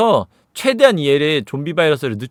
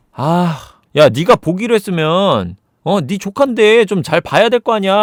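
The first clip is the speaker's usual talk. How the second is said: loud, drawn-out acted reproach; retold scolding; 4 semitones higher, 4 dB louder than usual. Sister scolds brother about niece by phone, exasperated reproach. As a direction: nag with raised, stretched phrases.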